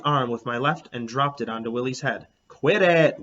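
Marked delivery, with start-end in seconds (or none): 2.5-3.2 annoyed. A narrator's reading. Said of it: "Willie said".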